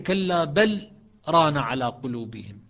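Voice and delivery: slow, بل held, a brief stop, then ران; pause after بل. Shown as a demonstration. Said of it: "كذلك". (سكتة على بل ثم ران على قلوبهم)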